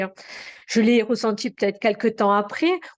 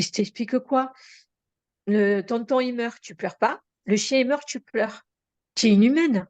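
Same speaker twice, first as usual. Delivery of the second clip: a sister's retold reproach, getting louder by the end; indignant reproach; 4 dB louder than usual. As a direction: accuse her, building up to a louder final blow. Sister scolds her for not crying. (reproche indigné de la sœur, de plus en plus fort)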